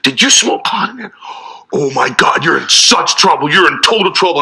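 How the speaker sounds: lightly voiced scolding older sister; mild tattletale sister; a hint of bossy older sister. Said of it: "she was like".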